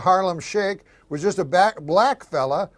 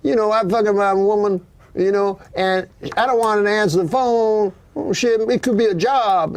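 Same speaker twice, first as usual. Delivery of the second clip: put-on higher African American accent, retelling a guy; 5 semitones higher than usual. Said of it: "Guy goes".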